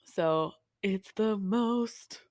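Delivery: slow whispered sarcastic singsong. Acted. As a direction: whisper it with dry irony. Sarcastic sung line.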